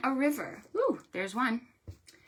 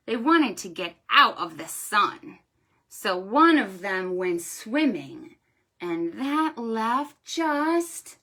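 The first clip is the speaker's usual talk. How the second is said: storytime rhyme; 3 dB louder than usual. Shown as a demonstration. Librarian reciting a counting rhyme to children. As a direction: read it like a picture-book rhyme.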